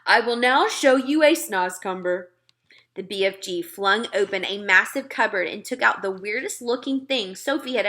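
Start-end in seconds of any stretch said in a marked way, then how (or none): 0.0-2.3 a lightly voiced gentle giant, a touch louder; friendly giant talking to a little girl; BFG giant voice. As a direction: play the big friendly giant, earnest and muddled. BFG voice held.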